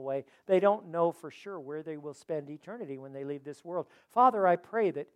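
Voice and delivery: earnest closing prayer. Acted. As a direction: pray aloud for the congregation. Pastor leads closing prayer.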